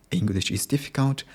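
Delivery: uptalk with "difficult" lifted high at the end; rising intonation. Shown as a demonstration. Learner showing how Japanese speakers end sentences, uptalk. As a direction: let "difficult" climb as if asking. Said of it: "rising intonation or uptalk".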